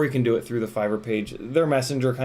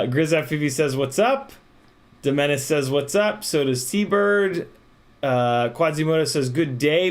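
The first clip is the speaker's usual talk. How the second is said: helium voice; 2 semitones higher than usual. Real, not acted.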